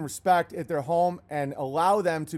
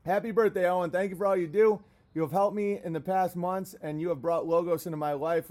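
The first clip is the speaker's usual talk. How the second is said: sincere letter read; 4 semitones lower than usual. Acted. Reading sincere fan letter.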